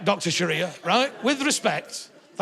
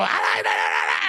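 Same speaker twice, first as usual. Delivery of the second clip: Wallasey? no. Retold or imitated. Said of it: "You can go to it and go".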